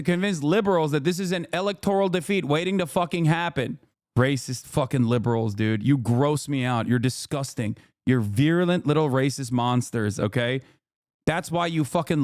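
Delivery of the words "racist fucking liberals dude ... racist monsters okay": disgusted contempt. Real, not acted. Streamer condemning liberal chatters, low disgusted voice. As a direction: spit out the disgust.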